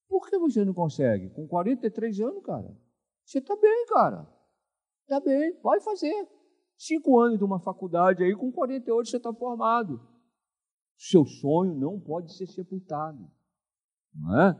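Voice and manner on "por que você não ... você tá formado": higher, lightly voiced encouraging pastor; cheerful encouragement. Pastor encouraging a 43-year-old student, higher and upbeat. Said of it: "Eu falei".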